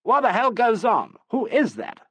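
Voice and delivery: high, loud angry shout. A narrator's reading. Uncle shouts from his dressing room, loud and angry. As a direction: bellow it from the next room. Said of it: "Bennington shouted from his room".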